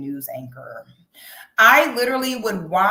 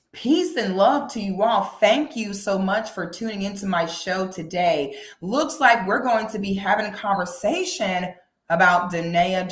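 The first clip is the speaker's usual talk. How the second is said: news anchor voice. Pretend. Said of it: "I need to go ahead and do everything in a news anchor voice".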